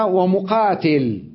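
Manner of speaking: ومقاتل drawn out slowly; slow reading of the text. Shown as a demonstration. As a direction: read ومقاتل slowly, spelling it out. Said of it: "قال". (قراءة بطيئة ممدودة)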